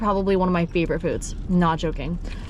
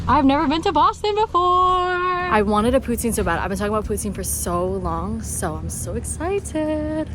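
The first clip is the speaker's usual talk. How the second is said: excited; 3 semitones higher than usual. Real, not acted. Excited for poutine.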